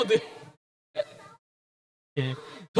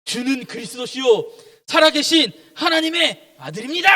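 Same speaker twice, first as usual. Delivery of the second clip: Peter's bold declaration; 3 semitones higher than usual. Acted. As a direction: step up and proclaim it as Peter. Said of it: "이때 베드로가 딱 나서서 뭐라 그러냐?". (나서서 선언하듯 점점 높게)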